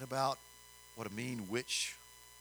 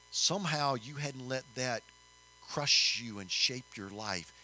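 encouraging; 5 dB louder, slower than usual. Retold or imitated. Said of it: "speaking life into her".

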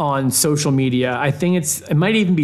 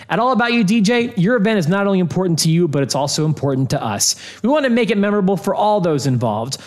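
upbeat sponsor ad read. Acted. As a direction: read it like a radio ad. Reads sponsor ad.

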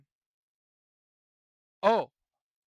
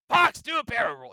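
raspy Luke voice; 7 semitones higher, 10 dB louder than usual. Retold or imitated. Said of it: "raspy Luke, Luke voice".

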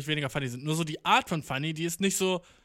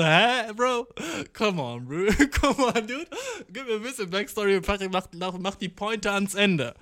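exasperated; 4 semitones higher than usual. Retold or imitated. Exasperated listener mocks bad storyteller.

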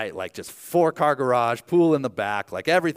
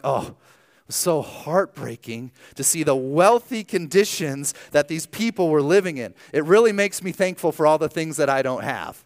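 mock heartbreak; 3 semitones higher, 3 dB louder than usual. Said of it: "coming back and being like".

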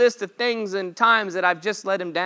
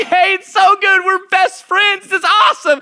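higher, giddy voice of an overjoyed dog; excited dog voice; 9 semitones higher, 5 dB louder than usual. Retold or imitated. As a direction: bounce through it like a thrilled puppy. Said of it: "She's like".

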